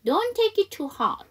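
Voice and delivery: high, loud, slow "Don't take it too hard"; slow practice model. Shown as a demonstration. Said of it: "여기 저랑 같이 한번 연습해봐요".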